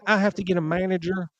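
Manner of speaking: put-on Southern accent. Drive-through worker sending for a manager, Southern accent. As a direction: mimic a Southern woman, voice lifted. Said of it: "why she has a southern accent".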